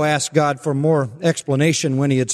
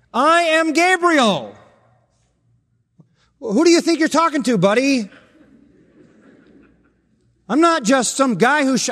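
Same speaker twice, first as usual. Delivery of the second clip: booming angel voice; 7 semitones higher than usual. Acted. Preacher voicing Gabriel rebuking the doubting priest, high and grand. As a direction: proclaim it like a mighty archangel.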